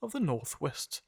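reading in an American accent; English read with American vowels. Shown as a demonstration. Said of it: "Ich hab das mal in einem amerikanischen Akzent vor".

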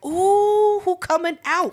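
high, loud gleeful ooh; gossip-hungry thrill; nosy excitement. Retold or imitated. Nosy watching from window.

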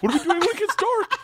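high, laughing question; laughing disbelief. Retold or imitated. Student asking the gangster through laughter. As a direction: ask it through nervous laughter.

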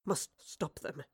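halting, forceful bursts that fade away; dying man's urgent plea. Acted. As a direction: plead with broken pauses, pressing hard on key words. Dying figure's last plea.

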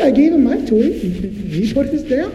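put-on whiny kid protest. Kids defending themselves.

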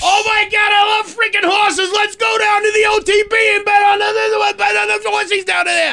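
hammed-up Dorchester guy yelling; loud party-guy Boston voice; Boston bro. Boston bro bit continues.

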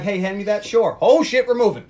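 hammed-up panicked patrons; mock bar patrons. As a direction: act out the sliding booth crowd. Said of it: "Everybody's like".

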